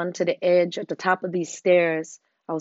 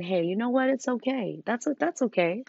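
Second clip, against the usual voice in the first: gentle self-talk. Pretend. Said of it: "and saying".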